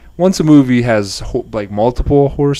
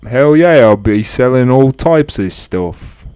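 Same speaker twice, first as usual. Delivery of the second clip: put-on Australian accent; 3 semitones higher, 5 dB louder, slower than usual. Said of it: "Do your black Australian voice".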